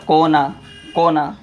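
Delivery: कोना said short and abrupt; quick jerk. Shown as a demonstration. Teacher showing students the quick reading, said with a jerk. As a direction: say कोना in one quick jolt, no held vowel. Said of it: "झटके से पढ़ेंगे".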